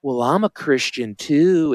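slow, syrupy mock-sincere believer; lightly voiced, drawn-out holy pitch; pious salesman. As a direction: imitate a salesman playing the faith card. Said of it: "they're like".

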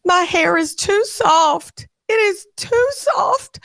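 upset daughter. Retold or imitated. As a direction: wail it like a distraught little girl. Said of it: "and she said".

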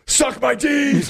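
high-pitched crude holler, played for laughs; mock taunting yell. Imitating a player pointing at his teammates, mock taunting yell. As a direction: holler it like a cocky ballplayer.

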